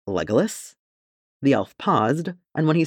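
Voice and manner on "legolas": startled. A narrator's reading.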